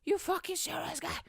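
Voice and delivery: can't believe these people; a high mock of disbelief; incredulous. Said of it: "I was like".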